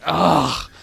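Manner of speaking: hammed-up weary trainer starting a rant; complaining trainer. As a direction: moan your bad day at the Pokemon. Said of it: "you're like".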